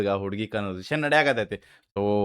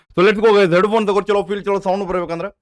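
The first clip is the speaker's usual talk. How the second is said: hyped intro; 9 semitones higher, 7 dB louder, faster than usual. Real, not acted. Hyping the track before playing.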